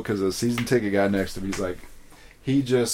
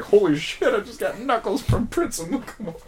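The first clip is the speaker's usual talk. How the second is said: starstruck excitement; 12 semitones higher than usual. Retold or imitated. Thrilled at getting knuckles.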